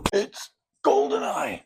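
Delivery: hammed-up teary falsetto; overjoyed reveal. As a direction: squeal the title like a fan near tears.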